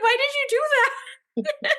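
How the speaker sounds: slow, high incredulous voice; high mock disbelief. Mocking the crew.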